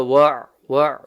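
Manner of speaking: Wa closed by an ayn from the middle of the throat; clear ayn. Shown as a demonstration. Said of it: "middle of the throat".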